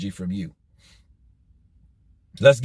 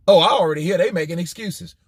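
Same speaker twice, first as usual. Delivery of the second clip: mocking quote; 3 semitones higher, faster than usual. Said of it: "What was his response?".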